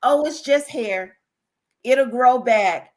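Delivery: slow, airy brush-off of what people always say; dismissive quote. Retold or imitated. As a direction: imitate the careless comfort others offer. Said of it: "We hear all the time".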